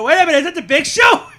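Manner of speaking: real startled shout. Real, not acted. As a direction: call it out the moment you recognise him. Commentator spots surprise intruder.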